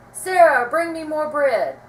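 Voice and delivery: high, loud joyful shout. A narrator's reading. Delighted husband calling to his wife, shouting loudly. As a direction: shout it across the room. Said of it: "he shouted".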